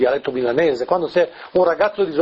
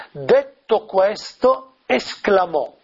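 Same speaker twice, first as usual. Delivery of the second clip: slow, measured reading of the verse; lettura scandita; much slower than usual. Shown as a demonstration. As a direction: read it out word by word, slowly. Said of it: "la traduzione ... che ho io dice". (lettura lenta e scandita)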